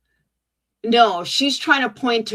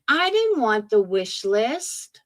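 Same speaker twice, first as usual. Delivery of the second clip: mocking whine; slower than usual. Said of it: "And now she's doing it again".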